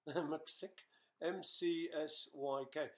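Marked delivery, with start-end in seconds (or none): 0.1-0.9 a small laugh through Mcsick, said with a rising tune; laughing at the name. Real, not acted. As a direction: chuckle as you repeat Mcsick, amused.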